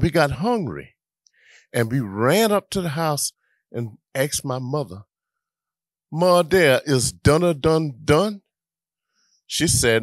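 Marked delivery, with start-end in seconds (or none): 6.1-8.4 put-on eager kid voice, higher and louder; a little boy pestering mom for food; mock child's plea; child asking. Child asking mother for dinner.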